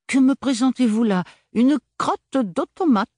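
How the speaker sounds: high, loud, laughing scorn; mocking laugh. Soldier mocking the bead, high and laughing. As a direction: laugh off the odd little bead. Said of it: "Il éclata de rire".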